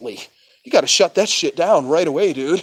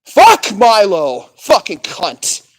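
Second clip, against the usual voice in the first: angry outburst; 5 dB louder, much slower than usual. Real, not acted. Outburst against Milo.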